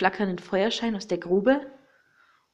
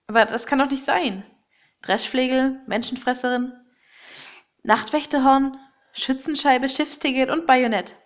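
higher, louder alarmed listing; 4 semitones higher, 4 dB louder than usual. Acted. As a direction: rattle off the items in alarm. Shocked listing of objects. (aufgeregt, erschrocken)

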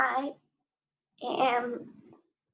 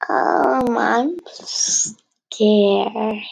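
loud; 10 dB louder, much slower than usual. Acted. Nervous child and father talk.

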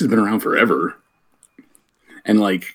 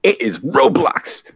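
excited hype; 4 semitones higher than usual. Pretend. Host hyping Roblox to kids.

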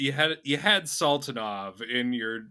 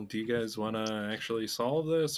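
Cynthia. Acted. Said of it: "like, really chill".

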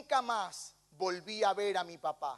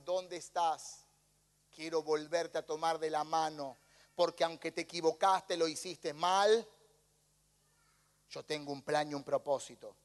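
tender God voice; 5 semitones lower than usual. Acted. God speaks tenderly to sinner.

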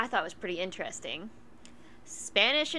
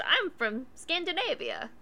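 mock Scandinavian accent; 8 semitones higher than usual. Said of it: "Is that your Scandinavian accent?".

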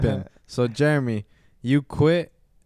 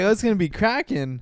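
excited, higher and louder; hyped; 8 semitones higher, 5 dB louder than usual. Retold or imitated. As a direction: pump it up like the party's starting. Retelling his hype entering club.

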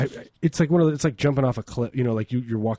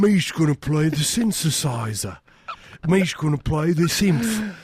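slow, higher, hammed-up German accent; mock German accent; 5 semitones higher, slower than usual. Comedian putting on a silly German accent for his cohost. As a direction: play a goofy German. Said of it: "your German accent's amazing".

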